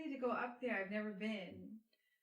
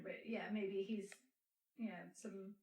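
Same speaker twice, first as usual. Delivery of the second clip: a slow unvoiced whisper, trailing off; 4 semitones lower, 6 dB quieter, slower than usual. Real, not acted. Co-host trails off into a whisper mid-thought. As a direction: drop to a whisper, as if letting it go. Trailing aside about the book.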